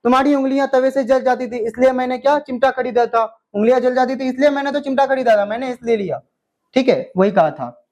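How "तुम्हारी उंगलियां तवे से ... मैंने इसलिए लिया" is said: fast, indignant retort as Hamid; showing anger. Shown as a demonstration. Teacher acts Hamid answering his grandmother, fast and indignant. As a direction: snap it back like a hurt child defending himself. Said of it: "ऐसे गुस्सा दिखा के कहा".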